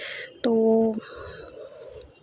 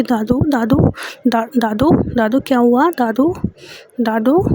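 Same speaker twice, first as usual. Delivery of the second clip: panicked calling. Acted. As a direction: call out to grandma in alarm. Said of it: "Maysha बहुत ज़ोरों ज़ोर से मतलब चिल्लाने लगती है".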